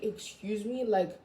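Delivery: sassy offended. Retold or imitated. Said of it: "I was just like".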